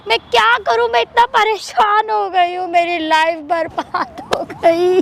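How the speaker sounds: wailing despair at the end; distraught crying. Real, not acted. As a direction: break down as the sentence drags out. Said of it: "मत करे drama".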